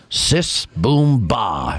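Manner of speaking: three words delivered one at a time; imitated Carnac bit. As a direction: announce each word separately, dropping on the last. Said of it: "He'd be like".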